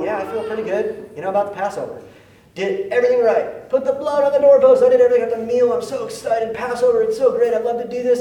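a cheerful worshipper proud he did it all right; excited Jew. Retold or imitated. One Jew pleased about Passover, excited and loud. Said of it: "There's one Jew going".

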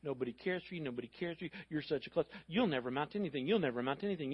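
lightly voiced nagging tape in the head; tape on repeat. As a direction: repeat it softly, like a loop. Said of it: "playing those tapes over and over".

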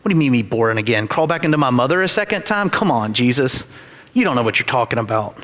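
quick, scoffing mock of Nicodemus; sarcastic jab, rushed and dismissive; sarcastic retort. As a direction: rattle it off like a smart-mouthed middle schooler. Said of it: "he gives to Jesus this, um, sarcastic retort".

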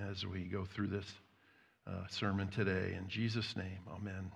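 softening, hushed prayer fading toward the amen. Real, not acted. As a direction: pray quietly and sincerely to God. Pastor prays before sermon.

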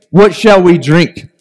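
slow, mocking question; slow sarcastic "What shall we drink?". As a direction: let the sarcasm drip, slowly. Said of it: "You can sense the sarcasm".

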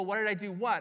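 imagined baffled question back; mildly puzzled, punching the last word; puzzled comeback. Acted. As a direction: act out being caught off guard by the question. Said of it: "And you go".

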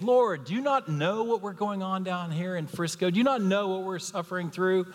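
high, pleading complaint to the Lord; bemoaning prayer. Retold or imitated. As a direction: whine your troubles up to heaven in mock despair. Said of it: "You might even be bemoaning these days".

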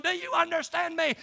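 mock yell without full volume; yelling drill instructor. Drill instructor confronting a scared recruit, mock yelling. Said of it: "He'd be yelling and screaming".

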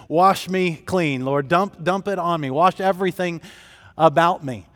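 a touch of excited eagerness; eager plea. Acted. Preacher voicing Peter begging Jesus to wash him, eager.

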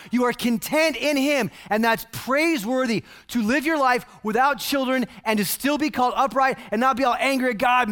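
preacher chiding Zechariah, building to a shout; building exhortation. Acted. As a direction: press the point harder and harder.

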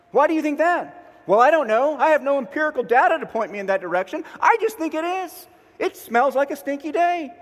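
high, loud mock whine of a gloomy self; gloomy inner voice. Preacher voicing his own gloomy thoughts, high whiny mock complaint. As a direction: play the grumbling pessimist inside your head.

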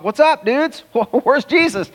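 high-pitched comic imitation of baffled questioners; mock puzzled questioning. Preacher acting Pharisees to empty-handed soldiers, mock puzzled. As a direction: pitch it way up, playfully incredulous.

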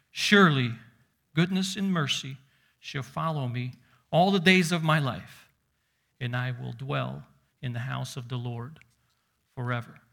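measured, projected Bible reading to a congregation; scripture reading. Acted. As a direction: read the psalm out with rising and falling force. Reads the psalm aloud.

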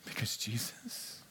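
slow hushed whisper; preacher whispering before the climax. Real, not acted. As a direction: hold the breath before the reveal. Hushed dramatic build.

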